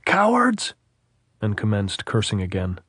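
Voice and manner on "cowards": captain shouting at the hilltop. A narrator's reading. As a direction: fling the word up the slope. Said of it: "he shouted".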